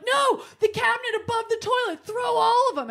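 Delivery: high insistent correction; friend's order. Retold or imitated. Friend correcting her choice of towel, high insistent. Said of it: "She's like".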